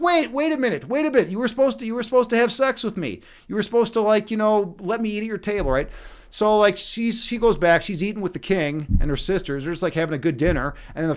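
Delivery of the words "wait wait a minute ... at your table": higher-pitched mock pleading; mock protesting frog. Frog calling after the girl who ran off, mock protest in higher pitch. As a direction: imitate a jilted frog calling her back.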